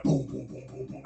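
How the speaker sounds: rapid run of spoken booms; imitated gunfire. Dreamer blasting the gunman, imitated gunfire. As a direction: fire off booms, fading at the end. Imitates his hand cannons firing.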